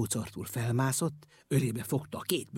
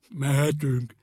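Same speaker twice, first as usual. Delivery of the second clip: louder call to the front; calling forward; 6 dB louder, slower than usual. A narrator's reading. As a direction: shout ahead to the engine. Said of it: "kiáltott előre".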